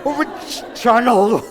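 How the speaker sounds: amused, can't hold the laugh in. Real, not acted. Trainer laughing at a trainee's answer, amused.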